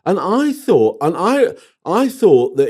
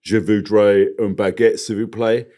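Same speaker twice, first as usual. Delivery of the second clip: French with a heavy English accent; terrible French accent; 4 semitones lower than usual. Shown as a demonstration. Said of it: "my terrible French accent".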